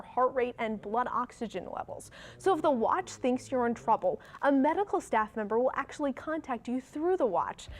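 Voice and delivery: measured TV anchor delivery; news read. Acted. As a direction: read it as a morning news update. Reads news to camera.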